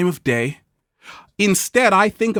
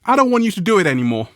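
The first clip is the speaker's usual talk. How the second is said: stranger's voice; 7 semitones higher, 3 dB louder, faster than usual. Retold or imitated. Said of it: "And they're like".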